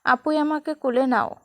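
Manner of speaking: a hint of whimpering little boy; sniffling child plea. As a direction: beg like a child on the edge of tears. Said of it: "Labib ফুঁপিয়ে ওঠে".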